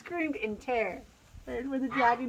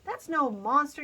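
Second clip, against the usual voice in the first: yelling squirrel; 4 semitones higher, 4 dB louder than usual. A narrator's reading. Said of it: "yelled the squirrel".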